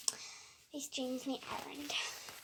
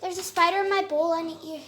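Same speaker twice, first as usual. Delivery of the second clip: loud, high pleading; panicked yelling; 4 semitones higher, 13 dB louder than usual. Real, not acted. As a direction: call out urgently for help. Still calling mom.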